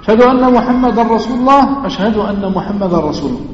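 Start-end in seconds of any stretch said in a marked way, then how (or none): 1.8-3.4 softer, quicker murmured repeat; hushed answer; quiet reply. Shown as a demonstration. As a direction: answer under your breath. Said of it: "muezzin line then reply".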